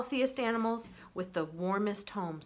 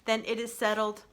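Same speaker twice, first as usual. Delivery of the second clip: calm robot voice; 2 semitones higher than usual. Acted. Roz the robot proposing peace to the animals, even robot voice. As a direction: speak like a steady, gentle machine.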